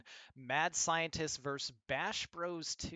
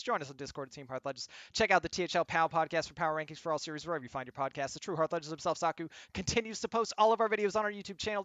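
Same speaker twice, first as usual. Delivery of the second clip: rapid-fire commercial announcer; fast ad read; 2 semitones higher, 3 dB louder, faster than usual. Acted. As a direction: rattle through it like an ad. Reads the channel commercial.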